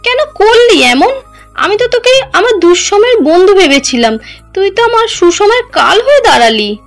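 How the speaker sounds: very high, enraged outcry of betrayal; furious accusation. Acted. Wife seizes treacherous cousin by the throat, furious accusation. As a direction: lash out with pitch soaring. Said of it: "প্রচণ্ড রাগে মারিয়ার গলা চেপে ধরে".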